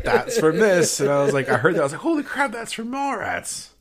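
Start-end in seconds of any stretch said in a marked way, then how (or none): 2.0-3.7 excited recognition. Retold or imitated. Viewer recognizing a Mallrats line, retold high excited outburst. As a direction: blurt it like you just placed the quote. Retelling his startled movie recognition.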